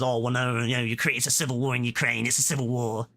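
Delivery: a hint of a whiny caller, lightly voiced; mocking the caller. Mocking the caller Don's civil war excuse, lightly voiced. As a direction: mimic the caller's excuses with mild scorn. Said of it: "this Don comes in and says".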